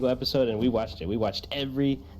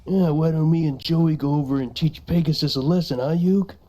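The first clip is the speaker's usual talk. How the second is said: Tristan voice; 3 semitones higher, 5 dB louder than usual. Pretend. Tristan voice, louder.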